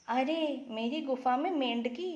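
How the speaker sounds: shocked to find a frog at home; mock startled fox; surprised fox. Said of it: "So he is asking".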